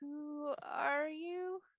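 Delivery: very high, hushed, soft, hesitant tentative tone. Retelling a story, asking a voice who it is: retelling a soft, tentative question. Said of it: "I asked soft, softly and tentatively".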